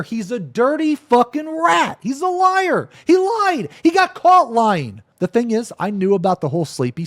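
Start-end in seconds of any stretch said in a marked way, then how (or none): 0.0-5.0 much higher, loud, hammering each short line; heated rant. Real, not acted. Streamer to viewers condemning the liar, heated. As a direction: keep pounding him. Angry rant about accuser.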